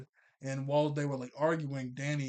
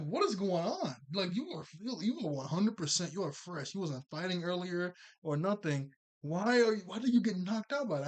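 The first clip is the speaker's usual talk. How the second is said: exasperated disbelief; 3 semitones higher than usual. Real, not acted. Viewer scolding Danny in disbelief.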